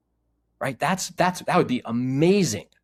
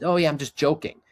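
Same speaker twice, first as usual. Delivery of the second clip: mock dismissive; 5 semitones higher than usual. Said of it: "any kind of poking".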